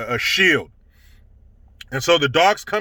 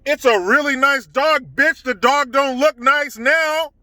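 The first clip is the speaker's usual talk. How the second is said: higher, sneering echo of her words; higher mocking echo, slowing on the last line; mocking retort; 6 semitones higher, slower than usual. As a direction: throw her words back at her with scorn. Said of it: "I'm like".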